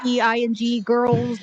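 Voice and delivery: mild mock yell. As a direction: call it out in a half-hearted yell. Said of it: "but he's yelling".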